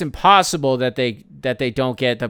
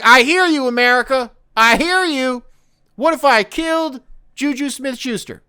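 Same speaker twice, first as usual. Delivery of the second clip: mock Brian Branch; 10 semitones higher, 4 dB louder than usual. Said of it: "Brian Branch is like".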